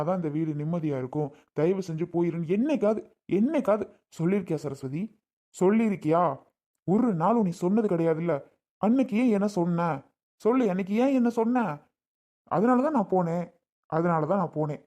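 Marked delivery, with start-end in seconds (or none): 2.6-11.6 louder, rising angry questions; angry confrontation. Acted. Husband confronting his wife over what she said, building angrily. 12.5-13.4 loud and higher, punching தான்; emphatic angry. Acted. Husband telling his wife why he left, loud and emphatic on தான்.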